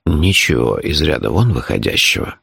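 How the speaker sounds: low, composed reply; calm. A narrator's reading. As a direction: answer evenly, as if nothing happened. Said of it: "также спокойно ответил мой неподражаемый друг".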